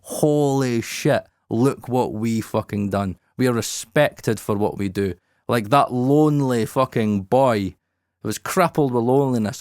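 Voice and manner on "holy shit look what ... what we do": emotional. Real, not acted. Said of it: "I get a little bit emotional saying that".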